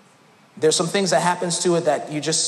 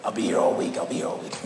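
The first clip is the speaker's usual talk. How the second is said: whispered aside; 12 semitones lower, 7 dB quieter, faster than usual. Pretend. Comedian sign-off line.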